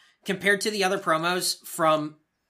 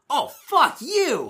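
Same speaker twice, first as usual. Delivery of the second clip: slow, drawn-out, higher jeer from the crowd; mock crowd jeer; 9 semitones higher, 5 dB louder, much slower than usual. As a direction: stretch it out like a booing fan. Crowd reacting to heel promo.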